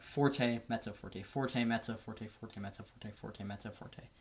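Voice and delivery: forte and mezzo called out, fading to almost nothing; fading counted pattern. Shown as a demonstration. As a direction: count the dynamics and let the voice die away. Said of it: "Or in proper terms".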